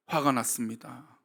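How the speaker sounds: low, soft and slow 화가 났습니다; hushed repetition. Acted. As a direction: drop the voice and drag out 화가 났습니다. Preacher repeats anger, hushed.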